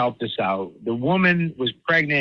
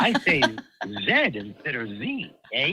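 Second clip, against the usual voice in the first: mock Canadian; 2 semitones lower, 4 dB quieter, slower than usual. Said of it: "from Canada, eh?".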